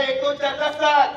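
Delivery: loud prompt. Real, not acted. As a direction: push the audience to answer up. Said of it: "मोठ्याने बोला".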